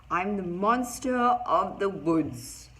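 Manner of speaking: loud, slow, drawn-out declaration; monster's proud announcement. A narrator's reading. Tiny creature introduces itself to the friends, grand announcement. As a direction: announce it big, stretching each word.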